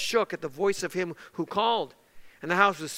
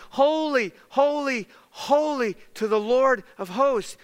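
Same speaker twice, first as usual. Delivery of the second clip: mildly raised call, slowing toward the end; angels calling out; 4 semitones higher than usual. Retold or imitated. Preacher voicing angels calling to the Lord, measured calling out. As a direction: call it out in spaced, solemn beats. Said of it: "Who do they call it out to?".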